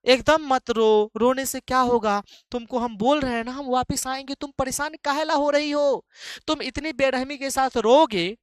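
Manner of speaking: loud, high, insistent mock pleading; hammed-up consoling lover. Poet begs his weeping beloved to hush, hammed-up consoling. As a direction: play a worked-up lover hushing a crying sweetheart.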